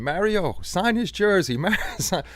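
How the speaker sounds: high, mock Czech-accented call across the bus; imitated Czech accent yell. Jágr yelling to Mario from the bus, mock Czech accent. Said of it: "in his Czech accent, he was yelling".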